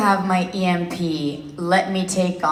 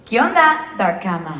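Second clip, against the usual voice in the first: in-character greeting. Shown as a demonstration. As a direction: toss out a breezy greeting in character. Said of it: "in your voice could say hi".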